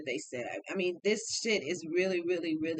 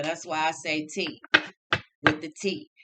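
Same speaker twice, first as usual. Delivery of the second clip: emphatic; 4 semitones lower, 7 dB louder than usual. Real, not acted. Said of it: "I ain't say with the T".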